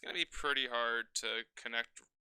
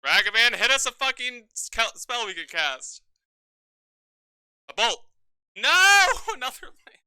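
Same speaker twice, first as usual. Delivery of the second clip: tense shouting; 10 semitones higher, 12 dB louder than usual. Real, not acted. Topdecking in a tense game.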